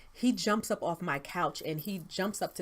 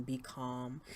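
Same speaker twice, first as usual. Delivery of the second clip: a soft, much quieter "Stay calm" spoken low; hushed inner voice; 3 semitones lower, 10 dB quieter than usual. Retold or imitated. Recalling the voice she believes was the Lord, hushed and soft. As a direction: pass on the quiet command gently, as if from inside. The Lord's voice, retold.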